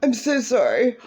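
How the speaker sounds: high, whiny mock sorry; mocking apology. Mocking the ex's fake apology, whiny and high. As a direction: sneer the ex's apology back. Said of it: "worst bullshit fucking apology ever".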